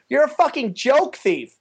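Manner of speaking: slow, high imitated accusation; accusing heckler. Heckler after the call goes unanswered, mock high accusation. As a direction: stretch it out as a triumphant mock heckle.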